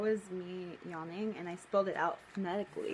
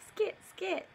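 Pokemon cry; 10 semitones higher than usual. Acted.

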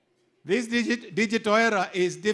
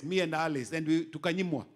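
normal talking voice

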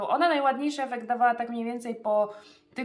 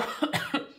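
chesty cough. Real, not acted. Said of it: "No jejku, nie wytrzymam".

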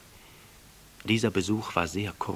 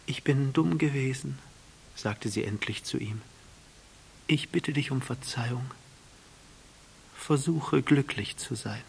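lightly voiced remorseful flower, a touch higher; a proud flower apologizing gently; flower's voice; 6 semitones higher than usual. A narrator's reading. Flower speaks.

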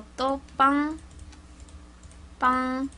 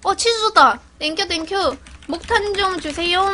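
excited; 6 semitones higher than usual. Real, not acted. Player calling thanks and a request to teammates, excited. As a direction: call out happily to the team.

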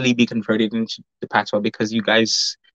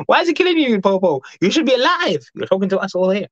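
teasing; 7 semitones higher than usual. Real, not acted. Teasing reply to commenter.

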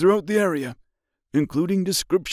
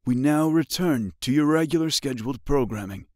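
high muffled emergency broadcast; muffled radio voice; 6 semitones higher, 3 dB louder than usual. A narrator's reading. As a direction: read like a crackly news bulletin. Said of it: "followed by a muffled voice".

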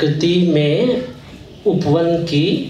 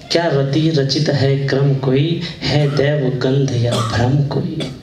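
measured Hindi verse with pauses between lines; poem recitation. Acted. Poet presents a poem on garden beauty to listeners, reciting. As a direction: recite each line deliberately, letting it settle.

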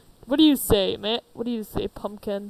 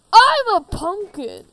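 pumpkin voice; 8 semitones higher, 9 dB louder, slower than usual. Acted. Pumpkin creature announces itself.

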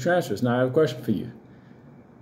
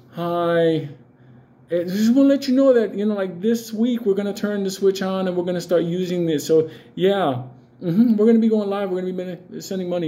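mock polite bank voice; 4 semitones higher than usual. Mock bank announcing switch-on.

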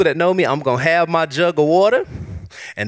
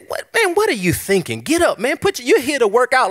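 self pep talk; 8 semitones higher than usual. Retold or imitated. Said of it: "I've said".

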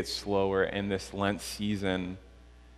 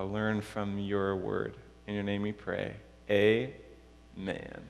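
prayer. Real, not acted. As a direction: lead the room gently in prayer, pausing between phrases. Leads the congregation in prayer.

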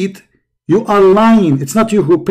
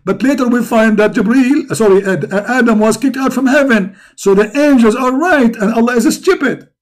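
heated; 3 semitones higher than usual. Real, not acted. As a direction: argue it insistently with the pitch lifted. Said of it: "no need to be angry".

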